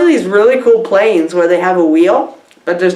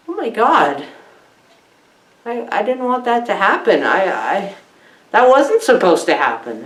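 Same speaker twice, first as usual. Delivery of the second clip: mock upset; 3 dB quieter than usual. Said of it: "Talk about getting me crying".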